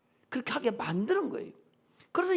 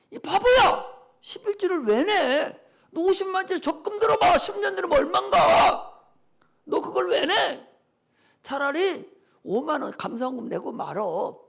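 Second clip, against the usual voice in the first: raised, exasperated mock scolding; scolding devil. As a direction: berate them as if they were a fool. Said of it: "마귀가 그런단 말이야".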